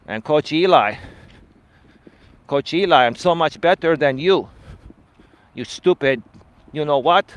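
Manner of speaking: lightly voiced mocking critic in a monotone; monotone critic impression. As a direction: mimic a dull, robotic hater. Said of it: "That's an example, right, of some people having a monotone voice".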